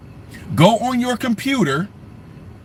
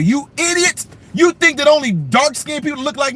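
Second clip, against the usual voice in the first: exasperated outburst; 6 semitones higher than usual. Real, not acted. Scolding doubters.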